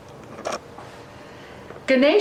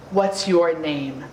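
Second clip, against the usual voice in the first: put-on old man; 4 semitones lower, slower than usual.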